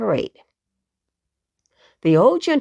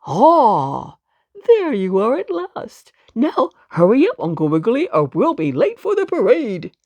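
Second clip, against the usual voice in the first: exclaiming; 3 dB louder than usual. Acted. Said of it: "the dog soldier with the gun exclaimed".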